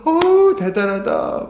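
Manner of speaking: high ooh, dropping into admiration; imitated impressed praise. Preacher imitating people praising a church planter, impressed. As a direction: mimic an awed bystander. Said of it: "막 대단하다고 칭찬합니다".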